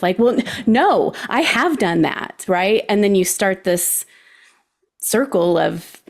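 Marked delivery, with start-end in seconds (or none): 0.2-2.4 defensive. Acted. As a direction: push back as an imagined defensive partner. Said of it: "gonna get very defensive".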